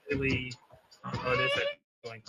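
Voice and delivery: echoing mic; canyon echo. Real, not acted. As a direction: voice echoing back. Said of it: "Yeah, I can hear the echo".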